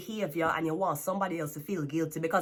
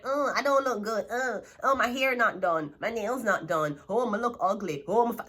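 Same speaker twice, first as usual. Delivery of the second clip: mock whiny self-pity; 2 semitones higher than usual. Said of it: "somebody who is like".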